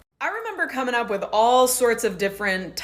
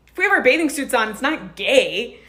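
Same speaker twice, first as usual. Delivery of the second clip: higher, slowing on "not gay"; mock earnest kid logic; 3 semitones higher, 4 dB louder than usual. Kid rationalizing showers with his friend, mock earnest. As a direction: play the kid talking himself into it. Repeating the childhood excuse.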